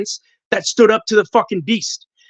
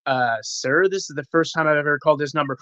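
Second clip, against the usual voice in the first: lower, hesitant, polite protest; taken-aback reply; 4 semitones lower, 5 dB quieter than usual. Retold or imitated. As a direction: retell a meek correction to an irate man. Retelling his baffled polite reply.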